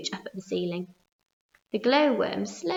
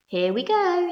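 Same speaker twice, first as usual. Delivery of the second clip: high, thrilled call; excited shout; 9 semitones higher, 5 dB louder, slower than usual. A narrator's reading. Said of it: "shouted the old green grasshopper".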